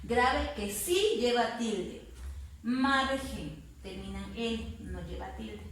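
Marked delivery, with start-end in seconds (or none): 2.6-3.6 "Margen" with MAR stronger; drawn-out "Margen", falling after MAR; stressed syllable demo. Shown as a demonstration. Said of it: "identifico la fuerza de voz".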